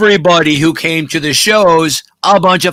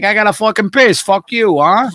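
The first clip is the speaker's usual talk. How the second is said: mock tough woman; 5 semitones higher than usual. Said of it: "Why is a woman talking like that?".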